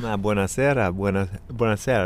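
talking with pizza in mouth; words round a bite of pizza; mouth full. Real, not acted. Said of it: "ich hab noch Pizza im Mund". (mit vollem Mund)

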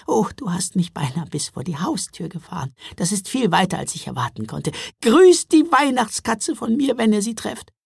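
cheerful storybook gingerbread man, pitch climbing high at the end; gingerbread man, friendly. Acted. Gingerbread man saying thanks and sending greetings, friendly. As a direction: send friendly greetings in a lifted character voice.

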